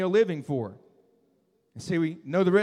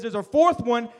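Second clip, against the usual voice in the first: amazed king; 3 semitones higher, 4 dB louder than usual. Acted.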